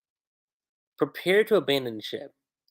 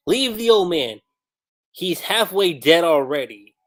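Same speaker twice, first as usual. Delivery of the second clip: mock command; 3 semitones higher, 6 dB louder than usual. Mocking Garp's answer.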